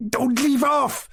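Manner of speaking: high squealing laugh through the words; screaming with laughter. A narrator's reading. Girl being tickled by her friend, squealing with laughter. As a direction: shriek it while being tickled. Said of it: "screaming and laughing".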